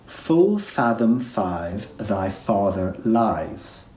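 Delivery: slow, careful verse reading; slow, deliberate line. Shown as a demonstration. Teacher reading Ariel's line slowly to students. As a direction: let each F land, slowly. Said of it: "Ariel says a sentence".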